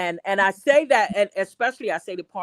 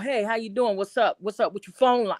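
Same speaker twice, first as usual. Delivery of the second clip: loose, casual street-style hello; casual street greeting. Retold or imitated. Repair worker greeting Camden customer, casual street style. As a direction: greet like a neighbor from the block. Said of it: "I gotta come out".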